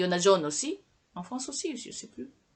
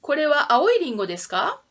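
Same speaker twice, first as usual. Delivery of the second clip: quick drill question; 4 semitones higher, faster than usual. Shown as a demonstration. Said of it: "Répondez".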